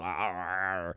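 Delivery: drawn-out groan in a put-on voice; mock seizure groan. Actor mimicking an artistic seizure, mock groan. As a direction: imitate someone seized by a sudden fit.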